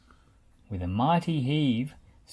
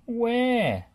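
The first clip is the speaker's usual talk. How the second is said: higher, louder puzzled question; 10 semitones higher, 6 dB louder than usual. A narrator's reading. Rolly asks Bob where, puzzled. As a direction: ask it confused. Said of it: "puzzled Rolly".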